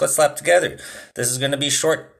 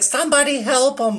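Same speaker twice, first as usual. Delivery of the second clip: mock panicked lady; 13 semitones higher than usual. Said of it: "this lady being like".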